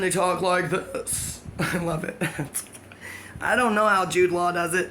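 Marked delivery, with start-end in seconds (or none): 0.0-1.4 slow, drawn-out mock American accent. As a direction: imitate people making fun of American speech, slowly. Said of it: "make fun of Americans".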